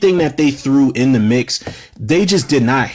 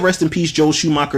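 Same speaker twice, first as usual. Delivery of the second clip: higher, knowing mock condolence; mock tribute; 3 semitones higher than usual. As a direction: say it with a wink to fans. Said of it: "if I said".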